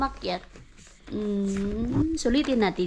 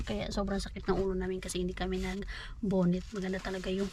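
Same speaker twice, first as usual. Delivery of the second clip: 1 weary whisper; 4 semitones lower, 7 dB quieter than usual. Real, not acted. Headache, whispered complaint.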